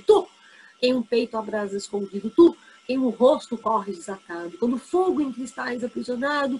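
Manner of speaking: measured, declaimed reading of the sonnet verse by verse; poem recitation. Acted. Teacher reading the sonnet to students before explaining it, declaimed. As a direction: give each line its weight like a poem read aloud.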